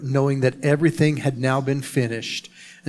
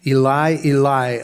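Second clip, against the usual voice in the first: loud cry; 5 dB louder than usual. A narrator's reading. Pastor reading Jesus' cry from the cross, mildly crying out. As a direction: read aloud as a moderately raised cry. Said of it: "cried out in a loud voice".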